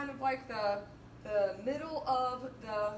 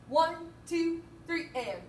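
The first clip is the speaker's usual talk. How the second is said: loud counting; 4 semitones higher, 3 dB louder than usual. Shown as a demonstration. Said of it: "exact same rhythm at a double forte".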